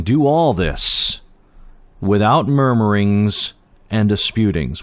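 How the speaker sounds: slow, deliberate reading of the verse; slow scripture reading. Shown as a demonstration. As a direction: read each word out slowly, weighing it. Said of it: "verse fourteen".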